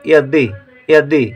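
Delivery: यदि ending on a brief "di"; short i. Shown as a demonstration. Teacher showing learners a short vowel, clipped "di" in यदि. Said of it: "दि कम देर के लिए बोला जा रहा है".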